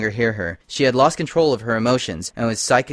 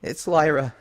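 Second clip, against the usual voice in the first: weak and trembling; 5 semitones higher than usual. Acted. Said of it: "she said weakly, her voice trembling".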